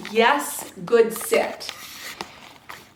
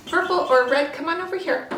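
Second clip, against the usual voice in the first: 1 calling puppies; 7 semitones higher, faster than usual. Real, not acted.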